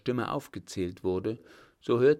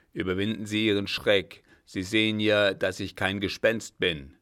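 put-on an old captain's voice, louder and firmer than the narration; 6 dB louder than usual. The old captain to the startled director, louder and firm. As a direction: speak as the old master calming a frightened man. Captain emerging through secret door.

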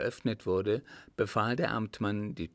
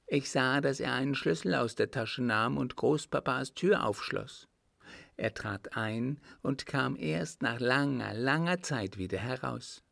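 put-on earnest child witness, slightly higher voice; lightly voiced little boy; 3 semitones higher than usual. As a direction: recount it simply, like a small boy. Narrator voices little Richard telling story.

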